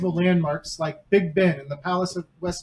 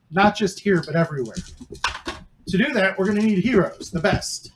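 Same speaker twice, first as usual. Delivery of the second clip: gruff voice. Acted. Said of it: "introduces himself in a gruff voice".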